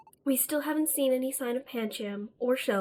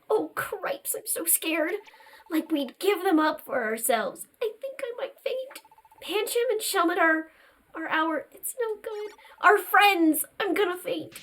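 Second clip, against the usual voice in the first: panicked; 6 semitones higher than usual. Acted. Timid character panics.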